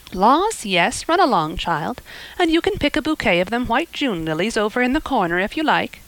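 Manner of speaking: put-on motherly neighbour forgiving a child, bluntly; hearty Mrs Lynde. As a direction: talk like a blunt, kindly busybody. Mrs Lynde voiced in story.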